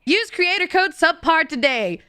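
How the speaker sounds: proper promo read. Shown as a demonstration. Guest redoing a creator code plug properly, promo read. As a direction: deliver it as a proper ad slogan. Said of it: "Let me do it proper".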